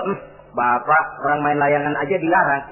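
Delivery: low, mildly grumbled complaint; inner grumbling. Acted. Child silently grumbling at father over kites, lightly acted. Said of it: "Si anak mungkin hatinya ngedumel".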